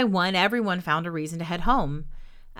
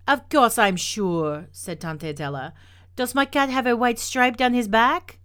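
put-on loud French-accented retort; insist, building higher to the question; indignant old woman; 5 semitones higher, 5 dB louder than usual. A narrator's reading. Tante Adela answering a doubting neighbor, indignant.

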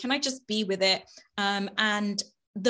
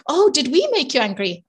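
imitating child; 3 semitones higher, 4 dB louder than usual. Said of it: "So they're like".

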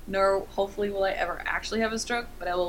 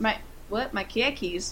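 questioning in a mock Boston accent; playful Boston-accented question; 4 dB quieter than usual. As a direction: ask it in put-on Bostonese. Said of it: "mini rants and different accents".

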